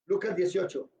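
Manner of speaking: ordinary delivery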